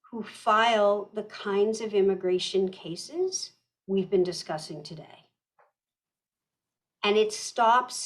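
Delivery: slow, with long pauses between phrases; deliberately slow. Real, not acted. Presenter explains protections after being asked to slow down, deliberately slow. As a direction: hand it over phrase by phrase for translation. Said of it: "slow down a lot more".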